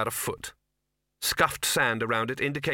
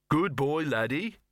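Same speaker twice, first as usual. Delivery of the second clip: awkward praise; 4 semitones higher than usual. A narrator's reading. Victor reluctantly praises the dog.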